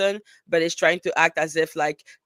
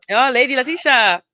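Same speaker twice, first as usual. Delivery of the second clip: posh lady voice; 7 semitones higher, 8 dB louder than usual. Pretend. Calling on a persona.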